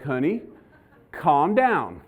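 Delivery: soothing wife, gently imitated with pauses; calming. Wife settling her panicking husband, calming. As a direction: talk them down, measured and unhurried. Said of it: "what to do to calm me down".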